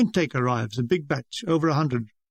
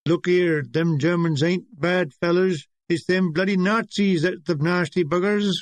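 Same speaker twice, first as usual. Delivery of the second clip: put-on Cornish accent. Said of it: "with a Cornish accent".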